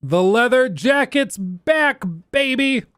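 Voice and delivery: slow, high, loud hype cry; excited. Real, not acted. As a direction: celebrate the jacket's return. Excited about the leather jacket.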